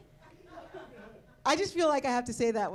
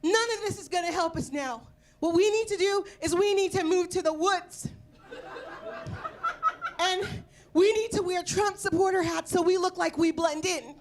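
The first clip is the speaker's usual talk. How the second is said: imitating a flustered nine-year-old, pitched up; mildly worked-up kid laying out an urgent plan; mock-flustered kid voice; flustered child; 5 semitones higher than usual. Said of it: "flustered. He was like".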